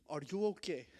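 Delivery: put-on careful African-accented English question; imitated African English accent. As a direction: lightly imitate a concerned African man's accent. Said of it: "one of them kinda spoke English".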